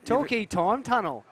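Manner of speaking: cheeky commentator ribbing the surfer; excited joking call. Real, not acted. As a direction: crow about the barrel with a grin. Commentator joking about long barrel.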